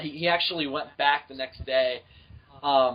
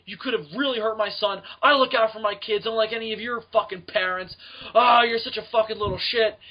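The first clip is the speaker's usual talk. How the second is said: mock angry dad; 5 semitones higher, 4 dB louder than usual. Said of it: "starts bitching at me".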